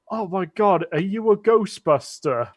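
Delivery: lightly voiced drunk in awe; drunk guy. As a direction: put on a mildly amazed drunk man. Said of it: "who is drunk, by the way".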